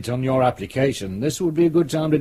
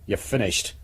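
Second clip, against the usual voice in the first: "you're finished" dropped softer and lower; quiet final verdict; 6 semitones lower, 6 dB quieter than usual. Acted. Superintendent dismissing the sergeant.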